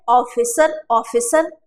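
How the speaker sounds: ऑफिसर starting on an open 'aw'; English pronunciation. Shown as a demonstration. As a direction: say ऑफिसर as 'AW-fi-sar'. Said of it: "इसको क्या बुलाता है".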